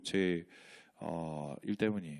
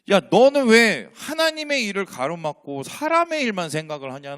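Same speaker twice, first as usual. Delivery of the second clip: stern rebuke; 6 semitones higher, 9 dB louder than usual. Acted. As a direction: call him out hard, then let it fall. Jesus rebuking Peter.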